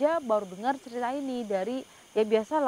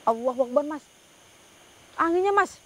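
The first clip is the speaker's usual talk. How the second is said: raised, higher call over the gusts; shouting over wind; 4 semitones higher, 5 dB louder than usual. Real, not acted. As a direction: push your voice over the storm. Wind roaring around them.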